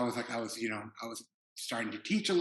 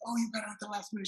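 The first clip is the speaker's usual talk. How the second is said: put-on French-Korean accent; 10 semitones higher, much faster than usual. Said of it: "almost Korean accent".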